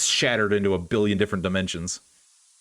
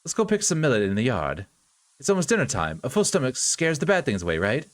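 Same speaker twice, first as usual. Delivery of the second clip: put-on kindly older sister coaxing; caring sister figure; faster than usual. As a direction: coax a sick boy to eat, gently upbeat.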